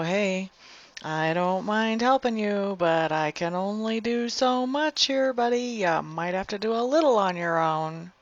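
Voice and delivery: gently voiced brush-off, stretched words; friendly boundary-setting. Telling someone in your sphere you can only help so much, politely firm.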